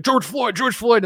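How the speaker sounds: high-pitched mocking repetition; mock freaking out. Mocking the host freaking out, high repeated cry. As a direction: parrot it like he's losing it. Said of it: "He's like".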